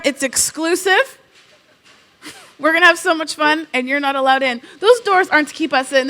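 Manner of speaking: bright pitch to skeptical teachers; upbeat mock announcement. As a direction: sell it to the staff with glee. Announcing rebrand to staff.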